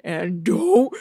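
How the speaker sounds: high, drawn-out anguished cry; Benicio del Toro. Acted. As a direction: wail it slowly, building to a shout. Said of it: "Benicio del Toro is like".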